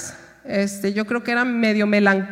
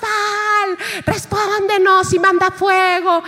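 higher, frantic plea to a silent god; desperate cry to Baal; 8 semitones higher, slower than usual. Retold or imitated. Prophets of Baal begging for fire, mock frantic. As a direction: cry out to Baal, half-performed.

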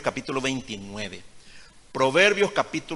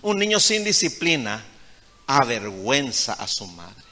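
emphatic preaching; 3 dB louder than usual. Real, not acted. Pastor warning mothers, loud preaching. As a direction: hammer the warning home.

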